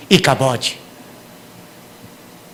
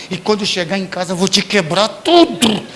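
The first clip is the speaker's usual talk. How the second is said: threat in public; 2 semitones higher than usual. Retold or imitated. Parent in the street threatening the child, building threat. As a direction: hiss it then burst at the end. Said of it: "você faz isso e fala".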